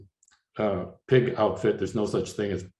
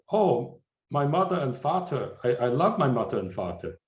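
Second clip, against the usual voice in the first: put-on a lightly done German accent, higher at the start; mock German accent; 4 semitones higher than usual. Quoting a German friend on his parents, light German accent. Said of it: "in a strong German accent".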